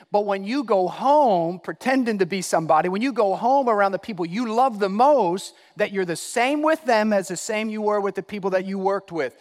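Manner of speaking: loud, driving preacher; forceful preaching. Real, not acted. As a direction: press it home to the congregation.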